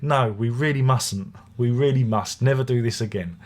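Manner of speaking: deadpan warm brush-off; mock warm politeness. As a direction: shake her hand and turn her down sweetly. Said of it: "warmly said".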